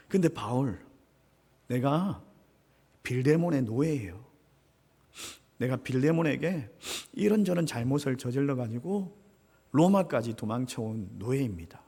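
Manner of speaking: somber confession. Acted. 노예의 무거운 고백. (무겁게 고백하는 오네시모)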